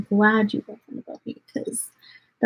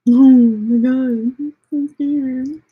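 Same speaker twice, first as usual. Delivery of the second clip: mock fear; 2 semitones higher, 4 dB louder, slower than usual. Mocking a hater's threat.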